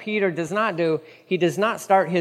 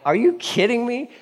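incredulous; 5 semitones higher than usual. Acted. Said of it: "They're like".

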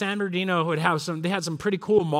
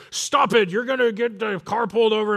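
mildly raised fed-up dad voice; mock dad scolding; 2 semitones higher than usual. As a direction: imitate a dad warning the back seat. Dad yells at squabbling kids.

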